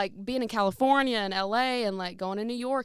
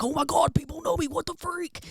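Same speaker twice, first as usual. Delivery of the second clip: mock shock; 8 semitones higher, 3 dB louder than usual. Shock at being recognized.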